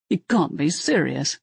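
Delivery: talking through a mouthful of candy; chewing while speaking; mouth full. Acted. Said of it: "through a mouthful of cherries".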